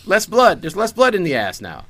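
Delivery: loud, high-pitched frantic protest; mock panic. Leech protests as the blood rushes away, in mock panic. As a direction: yelp in exasperated comic alarm.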